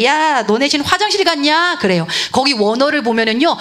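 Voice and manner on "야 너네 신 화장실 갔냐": light taunting jeer; mocking. Elijah taunting the prophets of Baal, mocking. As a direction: tease the rival camp about their god. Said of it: "엘리야가 막 조롱을 합니다".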